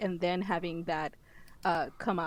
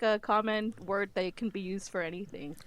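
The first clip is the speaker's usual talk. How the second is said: ordinary talk, nothing marked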